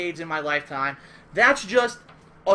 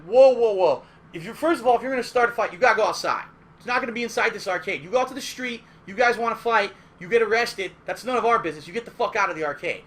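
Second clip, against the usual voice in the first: firm warning; 4 dB louder than usual. Retold or imitated. Organizer breaking up a fight.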